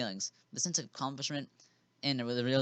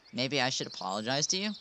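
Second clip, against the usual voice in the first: sarcastic. Acted. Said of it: "I asked sarcastically".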